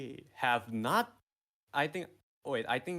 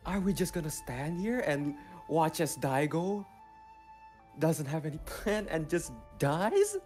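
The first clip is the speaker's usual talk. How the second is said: evil monologue. Acted. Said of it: "let me do my evil monologue".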